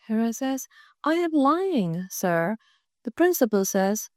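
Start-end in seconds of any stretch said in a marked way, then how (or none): 1.0-2.6 slow, fading mock-sick voice; feigned weakness. Girl faking illness to the principal, slow. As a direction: drag it out like she's fading.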